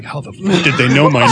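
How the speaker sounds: mock freak-out breaking into laughter. Retelling a freaked-out buddy's reaction, mock freaked out. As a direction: play the spooked buddy, half laughing. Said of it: "my buddy David got all freaked out".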